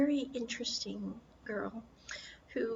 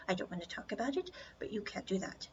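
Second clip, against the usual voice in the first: whispered; 6 dB quieter, much faster than usual. Retold or imitated. Retold drama quote, refusing touch.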